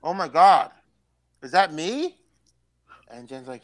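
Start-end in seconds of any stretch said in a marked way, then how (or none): 0.0-2.2 mock-horrified realization; retold shocked gasp. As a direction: gasp it in mild disbelief. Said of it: "I actually gasped".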